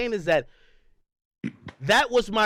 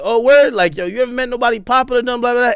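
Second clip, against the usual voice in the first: louder, quick mock-surprised reply; surprised retort; 7 dB louder, faster than usual. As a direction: re-enact your incredulous comeback, raising the volume. Acting out his surprised reply on stream.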